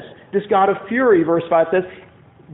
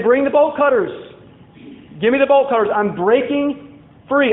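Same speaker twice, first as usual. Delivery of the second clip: raised, higher-pitched defiant call; defiant rebel; 5 semitones higher than usual. Acted. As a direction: call out as a rebel breaking loose. Acted rebels calling for bolt cutters.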